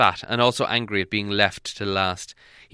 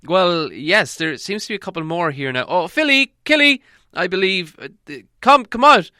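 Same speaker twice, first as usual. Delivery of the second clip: higher, louder call to the dwarves; wizard calling out; 9 semitones higher, 6 dB louder than usual. Acted. Gandalf calling the hidden dwarves out, high and loud. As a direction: summon them in with a lift.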